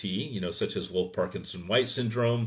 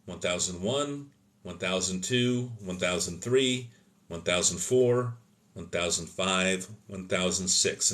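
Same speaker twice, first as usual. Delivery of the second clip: slow, soft, even count of seconds; calm counting; 3 dB quieter than usual. Shown as a demonstration. Medic counting out a breath hold with a panicking patient, calm and soft. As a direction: count them down gently, like you're holding breath with them. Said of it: "and say it calmly".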